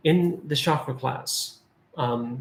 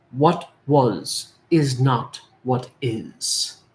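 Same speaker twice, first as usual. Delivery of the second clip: slow mantra; much slower than usual. Shown as a demonstration. Mantra said slowly.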